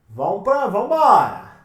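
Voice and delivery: "vambora!" called out brightly and loud; eager rally. Real, not acted. Teacher urging students to the next question, eager. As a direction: push the class forward with energy.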